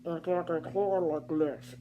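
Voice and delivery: very slow, drawn-out demo speech; talking slowly. Shown as a demonstration. Showing how she spoke to the hard-of-hearing man, very slow. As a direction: stretch each word out slowly. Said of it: "when it's talking to this guy".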